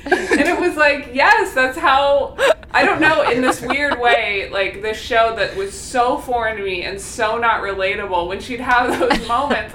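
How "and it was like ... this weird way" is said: laughing, louder and higher. Real, not acted. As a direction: laugh through the words. Laughing while recounting.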